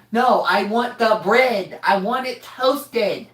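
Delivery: slow insistent mom. Retold or imitated. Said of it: "Mom says it another time".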